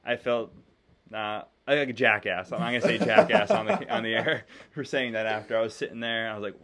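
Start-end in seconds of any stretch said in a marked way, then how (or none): 2.5-5.6 laughing. Real, not acted. Laughs at own slip.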